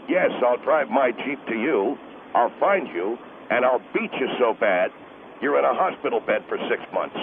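low, gruff angry husband. Acted. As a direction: growl it like a protective husband. Husband threatens caller.

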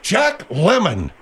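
slow, spelled-out name; slow repeat. Acted. Host repeats the actor's name for the puzzled guest, slowly. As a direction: draw out each word for a slow listener.

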